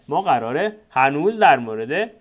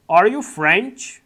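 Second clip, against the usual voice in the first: drawn out and louder, rising at the end; very slow model reading; 5 semitones higher, 5 dB louder, much slower than usual. Shown as a demonstration. Teacher modelling the question before repeating it, very slow. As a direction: lay each word out for beginners. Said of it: "slow model then normal repeat".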